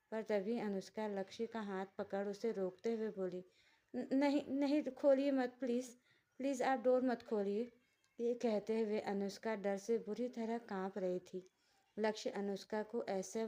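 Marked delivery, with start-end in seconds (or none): 3.9-7.7 higher, louder, stammering plea; frightened pleading. Acted. The wife frantically begs her husband not to open the door. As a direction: beg him in panic not to open the door.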